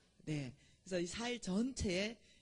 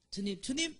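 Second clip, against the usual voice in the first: calling out; 6 semitones higher than usual. Retold or imitated. Calling out to the Lord.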